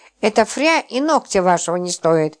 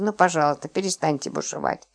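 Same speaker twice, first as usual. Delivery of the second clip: softer, sinking plea; pleading; 3 semitones lower, 6 dB quieter than usual. Acted. Lipochka softly begging Roman to stop raging, pleading. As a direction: beg him gently to stop raging. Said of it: "взмолилась она".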